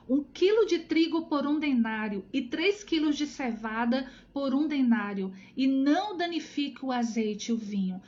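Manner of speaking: measured, emphatic Bible reading; scripture reading. Acted. Teacher reads Revelation to online study group, emphatic scripture reading. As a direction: declaim the verse with weight on key words.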